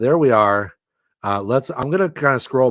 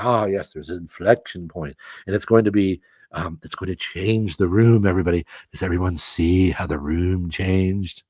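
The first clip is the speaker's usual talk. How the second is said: a lightly lower, dreamy mock-mystic voice; mock ethereal guru; 5 semitones lower than usual. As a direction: play a vague guru, half-joking. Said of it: "You guys like when I talk like this?".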